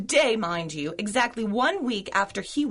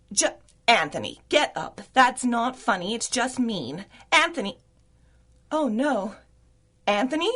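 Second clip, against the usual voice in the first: alarmed. Acted. Finds judge collapsed.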